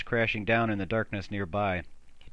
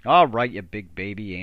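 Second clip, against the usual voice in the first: scoffing; 6 dB louder than usual. Acted. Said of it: "Andy scoffed".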